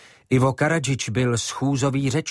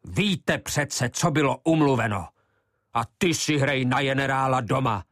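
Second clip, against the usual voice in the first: angry call; 4 semitones higher than usual. Acted. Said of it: "volal na Branu".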